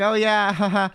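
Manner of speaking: acted-out polite fake laugh. Storyteller humouring the stranger in the car, fake laughing. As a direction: play along with a fake laugh. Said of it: "I was fake laughing".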